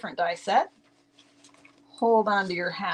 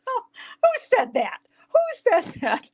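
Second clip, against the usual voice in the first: mock shock; slower than usual. Mock indignation at viewer comment.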